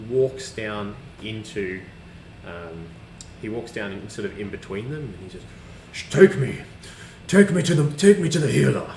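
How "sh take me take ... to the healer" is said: loud, high, put-on demand; hammed-up urgent order; urgent plea. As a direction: act out a desperate call for help. Game master acts stricken character's plea.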